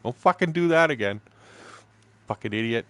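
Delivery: half-joking angry rebuke; mock angry scolding. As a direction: chew him out like the guide did. Guide scolding him afterwards.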